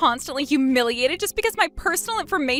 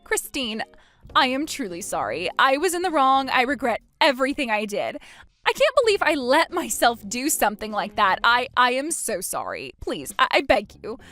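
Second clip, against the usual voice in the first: desperate begging. Acted. Man begging ex-wife for mercy.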